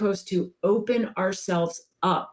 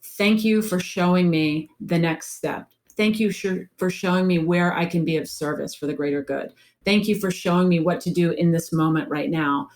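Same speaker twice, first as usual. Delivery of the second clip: gratitude prayer. Shown as a demonstration. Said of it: "say in your mind to your higher self".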